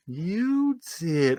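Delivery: mock taunt. Re-enacts taunting of aggravated coworker.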